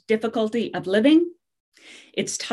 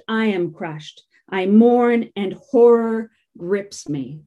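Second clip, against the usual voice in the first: scripture reading; 3 dB louder than usual. Acted. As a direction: let the sorrow of the prophet weigh on every line. Reads lament from Jeremiah.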